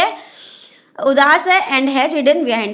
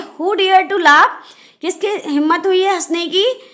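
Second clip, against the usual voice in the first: indignant demand; 5 semitones higher than usual. Acted. Cat demands who laughed.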